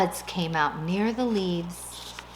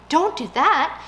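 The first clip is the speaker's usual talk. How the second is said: urgent plea; 7 semitones higher, 6 dB louder than usual. Acted. Old lady stopping policeman.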